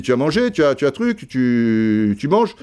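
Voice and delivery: put-on high questioning voice, barely Belgian accent; Goethals, imagined Belgian accent. Belgian coach asking if he has eaten, faint mock Belgian accent. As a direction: lightly imitate a Belgian coach. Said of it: "imaginez l'accent belge".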